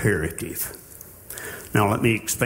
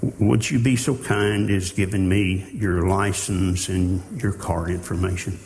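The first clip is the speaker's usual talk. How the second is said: mock-meek, pleading policeman; overly polite officer; 3 semitones lower than usual. Preacher mocking a kneeling officer, lightly voiced, meek. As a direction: beg for the license like a timid cop. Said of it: "and he kneels down at your door and said".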